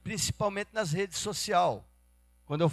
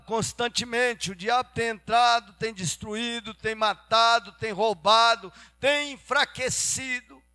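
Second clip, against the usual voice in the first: raised, insistent sermon voice; emphatic preaching; 6 semitones higher, 8 dB louder than usual. Real, not acted. Preacher warning how the devil takes over lives, forceful. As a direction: hammer out each item of the list.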